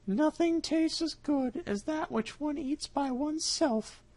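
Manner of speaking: high, slow cat voice, smug; satisfied cat. Acted. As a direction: savour it like a full cat. Cat pleased with himself.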